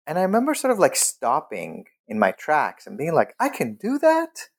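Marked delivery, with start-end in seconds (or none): 3.4-4.5 high, incredulous question; can't believe it's allowed; stunned disbelief. Retold or imitated. Disbelief on realizing he can.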